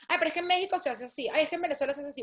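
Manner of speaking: mock complaining foreigner; lightly whiny; whiny expat complaint. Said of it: "no es como que".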